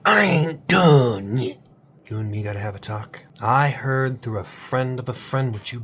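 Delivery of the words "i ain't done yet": slow, loud, stretched defiance; defiant shout. Retold or imitated. Coach making viewers shout their defiant motto. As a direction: roar it out slowly. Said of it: "You go".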